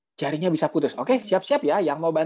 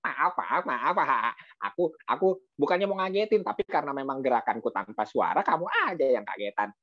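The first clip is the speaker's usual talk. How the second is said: laughing owl; 2 semitones higher than usual. Acted. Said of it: "Burung hantunya ketawa juga".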